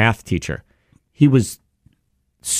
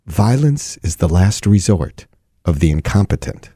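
calm quote; 5 semitones lower than usual. Retold or imitated. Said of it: "he just calmly said".

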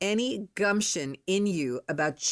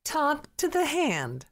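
higher, slow mock-sassy brush-off; playful imitation of a teen's dismissive retort; sassy kid quote; 9 semitones higher than usual. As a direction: toss it off like a cheeky teen. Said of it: "What did my kids used to say?".

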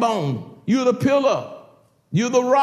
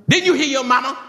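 higher, louder mock yell at a grandchild; mock screaming grandma; 8 semitones higher, 6 dB louder, faster than usual. Grandma yelling at grandchild, mock scream. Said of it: "worst thing you can have is a screaming grandma".

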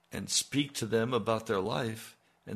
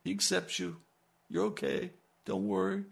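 higher, coddling there-there voice; mock soothing; 5 semitones higher than usual. Preacher mocking congregation wanting comfort, higher mock soothing. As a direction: pat them on the head with the words. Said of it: "to be told".

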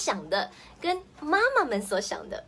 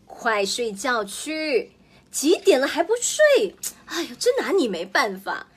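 exasperated bedtime scold; 3 semitones higher, 5 dB louder than usual. Acted. Mother ordering child to bed.

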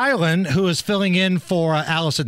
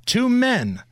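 "Two men" set apart with deliberate stress; "Two men" stated as the key point; emphatic TWO MEN; 3 semitones higher than usual. Shown as a demonstration. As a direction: lean on both words, "Two men", then pause. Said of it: "I can't stress this enough".

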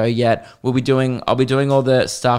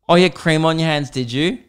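quick, mocking repeat of his excuse; sarcastic echo; 3 semitones higher than usual. Comedian mocking the player's excuse, sarcastic. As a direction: throw his excuse back at him with scorn. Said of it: "mocking echo of excuse".

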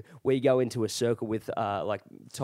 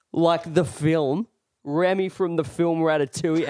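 pointed clarifying; 3 semitones higher, 3 dB louder than usual. Retold or imitated. Storyteller explaining to a confused drunk, pointed clarifying. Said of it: "I just look at him and I go".

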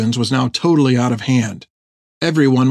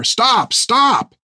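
shouted; 11 semitones higher than usual. A narrator's reading. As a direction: cry out to halt them, pitch leaping right up. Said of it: "he shouted".

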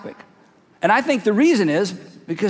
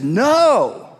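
audience's emphatic answer; 2 semitones higher, 3 dB louder than usual. Acted. Voices the whole audience answering.

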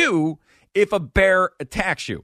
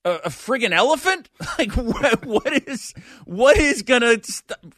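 laughing disbelief; 7 semitones higher than usual. Real, not acted. Incredulous, laughing.

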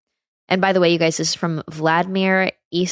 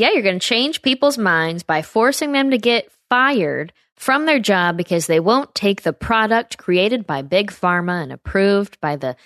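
sarcastic mocking; 3 semitones higher than usual. Real, not acted. Sarcastic rebuttal of Biden's claim.

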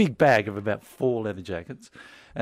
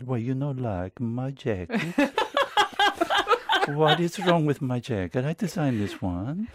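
put-on a light Italian accent, slow, breaking into laughs; mock-hurt designer, laughing through it; Italian accent through laughter; 3 semitones higher, slower than usual. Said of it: "am I allowed to do an Italian accent?".

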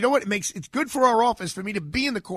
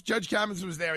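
ordinary delivery

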